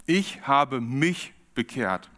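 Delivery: langsam, "Ich" und "mich" deutlich abgesetzt; Betonung auf ICH. Shown as a demonstration. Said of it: "es geht sehr stark um dich". (gedehnter Nachdruck auf "Ich" und "mich")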